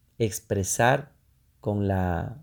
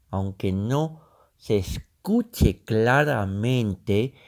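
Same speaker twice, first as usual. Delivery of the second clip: slow, higher, louder words pushed round a pencil bitten between the teeth; talking with pencil in teeth; 4 semitones higher, 4 dB louder, slower than usual. Shown as a demonstration. Teacher demonstrating the pencil exercise, effortful speech through bitten pencil. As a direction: strain to speak clearly around a pencil. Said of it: "este momento estoy ya con el lápiz".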